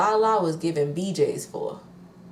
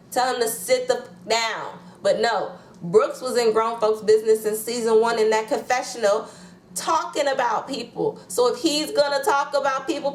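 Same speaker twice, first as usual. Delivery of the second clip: heated rant; 5 semitones higher than usual. Real, not acted.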